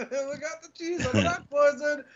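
high put-on deli cook voice, giggling; Aki impression. Host imitates Aki making a sandwich with rat poison. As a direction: cheerfully rattle off the poisoned order. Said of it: "Just be like".

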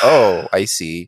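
slow uncomfortable Deanna. Retold or imitated. Imitating Deanna leaving the dinner, slow and low. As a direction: drag it out, uneasy. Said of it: "It was more of like a".

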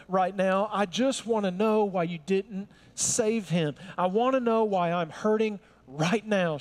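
mildly exasperated protest, leaning on words; a touch of impatient grief; frustrated. Acted. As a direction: demand answers as a hurting, frustrated sister. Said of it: "Martha felt a sense of some of that frustration".

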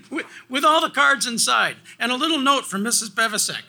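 high-pitched, laughing through the words. Real, not acted. Speaker showing the kept checkbook box, really laughing. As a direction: struggle to talk through real laughter.

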